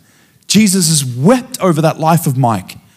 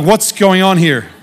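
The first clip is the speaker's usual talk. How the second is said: laughing confusion; 3 semitones higher than usual. Retold or imitated. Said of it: "And I was like".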